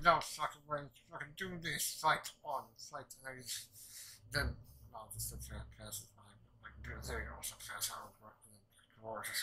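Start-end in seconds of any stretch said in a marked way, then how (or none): 0.0-3.1 hammed-up shout of refusal, raised pitch; retold defiant shout, loud; mock angry yell. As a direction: bark it like a fired-up fighter. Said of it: "the other guy was like".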